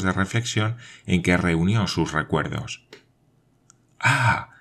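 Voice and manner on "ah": a sudden, higher gasp of new hope; hopeful Ah, pitched up; hopeful exclamation. A narrator's reading. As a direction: let hope leap into the sound. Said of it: "exclamó Glenarvan concibiendo nuevas esperanzas".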